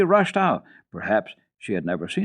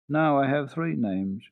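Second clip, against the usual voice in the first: sighing; 4 semitones higher, slower than usual. Acted. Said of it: "she added with a sigh".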